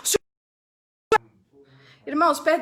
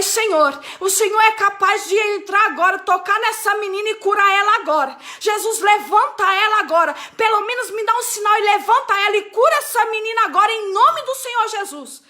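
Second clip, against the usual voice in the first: a lightly raised, pleading prayer for healing; fervent prayer. Acted. Preacher reenacting her prayer at the bedside, fervent prayer. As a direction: call on Jesus to heal her, urgent but only mildly raised. Prays over the sick girl.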